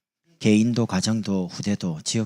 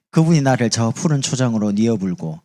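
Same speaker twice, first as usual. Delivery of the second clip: Jeolla dialect, louder; 전라도 사투리; 6 dB louder than usual. Shown as a demonstration. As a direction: read it in Jeolla dialect with gusto. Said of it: "전라도 사람 이래 말합니다". (전라도 사투리로 크게)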